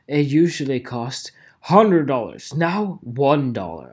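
mocking ad pitch. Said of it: "the thing of".

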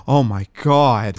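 slow gasping mock shock. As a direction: gasp then say it in fake horror. Mock parent gasps.

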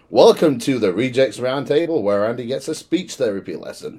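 mock-formal show intro; posh announcer voice. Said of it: "I'm putting my posh announcer voice on".

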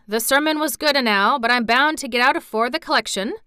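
lightly voiced half-awake old man; a hint of a drowsy Yorkshire grumble; old Yorkshire gardener. Sleepy Ben grumbles.

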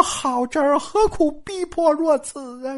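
slow, high-pitched appeal; drawn-out, helpless protest; plaintive pleading. Acted. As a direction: plead against being pushed so hard. Caught man pleads against extortion.

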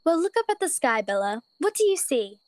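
encouraging bunny mother. Acted. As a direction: nudge the child to look up. Mother voiced.

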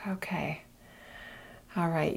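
soft breathy whisper, right in your ear. Shown as a demonstration. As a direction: lean in close and whisper it. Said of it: "while I whisper in your ear".

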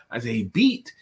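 "beat" lifted with a rise; stress on BEAT. Shown as a demonstration. Suggesting he only pushed her, stress on "beat". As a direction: question the word "beat". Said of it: "he could have pushed her".

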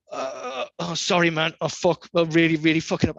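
squirm out an apology; mock sheepish apology. Skaters apologising humbly.

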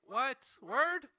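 high, loud incredulous "What? Word?"; surprised. Retold or imitated. Retold disbelief at the bet.

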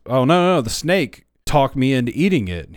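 retelling Eve's excuse, a touch of mock protest. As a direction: lightly act Eve pushing the blame away. Eve retold, blaming snake.

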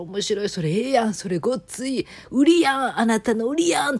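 rising to a loud, high excited cry; excited gushing. Retold or imitated. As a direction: gush with growing excitement. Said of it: "ちょっと大興奮したんですよ".

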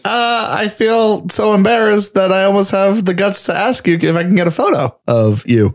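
high, bashful request; awkward fan. Retold or imitated. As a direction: stammer out the ask. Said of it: "is like".

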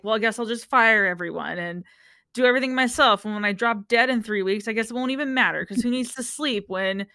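lightly whiny man ranting about firing everyone; half-hammed self-pitying rant; a touch of melodramatic martyr; whiny tirade. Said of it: "I go on dramatic tirades like that".

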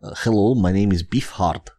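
lightly voiced Russian stranger; hint of a broken-English Russian; Russian accent. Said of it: "my English not so good".

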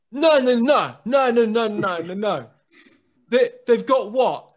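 high loud repeated no, no, no; mock meltdown, shouted high; outraged shouting. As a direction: yell it like your day is ruined. Sam outraged at sandwiches.

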